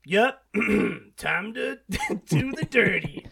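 slow, lightly put-on creep, laughing midway; creep in the film. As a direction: drawl out a mock sleazy quote through a chuckle. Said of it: "and he's like".

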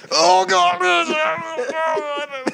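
high, loud mock wail; tumbling cry. Friend somersaulting downhill, loud high mock cry. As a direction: imitate someone yelling while rolling over and over. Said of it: "And as he's rolling".

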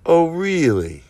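mock-skeptical falling tone; knowing challenge. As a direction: stretch REALLY and let it fall. Same challenge, second take.

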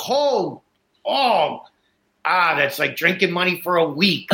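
imitating the seller's thrilled reaction; mock delighted. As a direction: sound like cash just landed in your lap.

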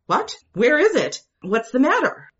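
high, startled questions; jolted awake and alarmed; husband sitting up in alarm. A narrator's reading. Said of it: "sat up in alarm".

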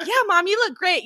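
put-on lifted, sing-song kid compliment; high mock kid voice. Kids reassuring mom she looks great, in a high sing-song.

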